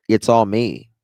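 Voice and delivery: loud mocking self-praise; sneering imitation of a bragger; mock boast. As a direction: play him as a braggart. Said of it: "mocking the interviewee".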